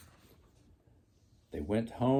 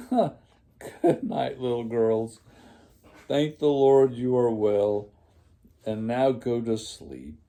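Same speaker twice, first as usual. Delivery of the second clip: firm but kind; 8 dB louder than usual. A narrator's reading. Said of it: "said Miss Clavell".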